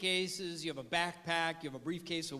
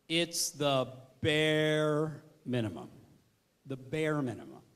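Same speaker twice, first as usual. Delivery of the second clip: deflated; 5 semitones lower than usual. Shown as a demonstration. Defining basic as deflated minimum.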